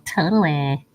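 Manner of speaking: mock Valley Girl drawn-out vowels. Streamer mimicking own Valley Girl slip, playful Valley Girl accent. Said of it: "Sound like a Valley Girl".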